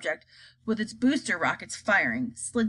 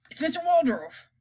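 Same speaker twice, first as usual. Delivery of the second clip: triumphant guess; 6 semitones higher than usual. Acted. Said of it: "said the president".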